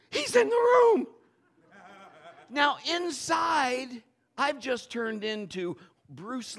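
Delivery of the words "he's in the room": much higher and louder, urgent and scared; panicked warning. Retold or imitated. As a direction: warn him in terror. Wife warns of intruder.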